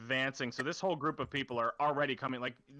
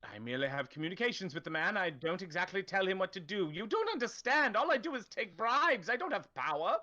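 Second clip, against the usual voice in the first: higher, hesitant official's voice; nervous town official; 5 semitones higher than usual. Acted. Cornered town official stammers excuses to the knife-wielding player, high and nervous. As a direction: fumble excuses like a cornered bureaucrat.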